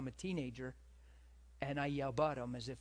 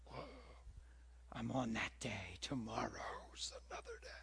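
hushed whisper of eager self-talk; 3 semitones lower, 6 dB quieter than usual. Retold or imitated. Whispering his plan to fast forever to himself. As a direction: breathe it out, excited and secret.

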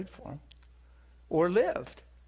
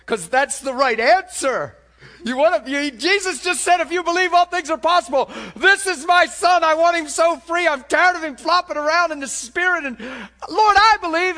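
high, loud, pleading cry; desperate father's plea; 14 semitones higher, 14 dB louder than usual. Retold or imitated. Father pleading with Jesus for his son, shouting. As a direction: beg like a father at his wits' end. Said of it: "And he's like".

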